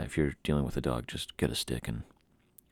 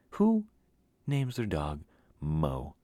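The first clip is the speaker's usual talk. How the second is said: incredulous question; much slower than usual. Real, not acted. Incredulous at the dog's name.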